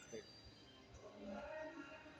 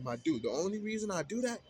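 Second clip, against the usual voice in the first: raised, louder exasperated telling-off; telling off the roommate about his smell, heated and raised; heated retort; 5 semitones higher, 4 dB louder than usual. Retold or imitated. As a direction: let the frustration build as you vent. Retelling his angry reply.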